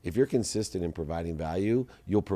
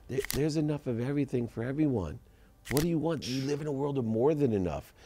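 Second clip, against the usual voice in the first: much higher-pitched retold mother; mother's emphatic counsel; 8 semitones higher than usual. Mother tells her son there is enough, emphatic. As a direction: lift the pitch to insist, as mom.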